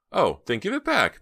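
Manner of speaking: loud, high mock demand, only half kidding; playful but meaning it; half joking. A narrator's reading. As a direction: tease her for the scarf back with a real edge. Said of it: "only half joking".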